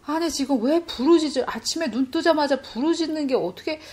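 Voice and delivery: incredulous questioning; doubting. Retold or imitated. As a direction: voice your doubt as a puzzled complaint. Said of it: "이렇게 의심이 옵니다".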